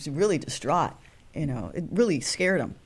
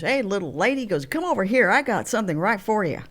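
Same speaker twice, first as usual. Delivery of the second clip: crew driver's voice; 3 semitones higher, faster than usual. Retold or imitated. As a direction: imitate a good-old-boy driver calling her over.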